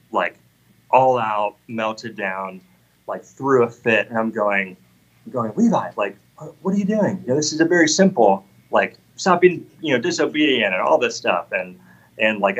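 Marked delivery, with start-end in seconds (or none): 5.5-11.5 exasperated scolding. Retold or imitated. Father scolding son over disobedience.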